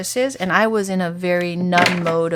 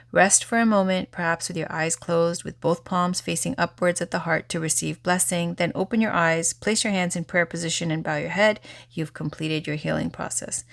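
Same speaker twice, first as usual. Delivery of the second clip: guided meditation close. Acted. Closing a healing session for viewers, calm and gentle. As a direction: ease them out of the meditation.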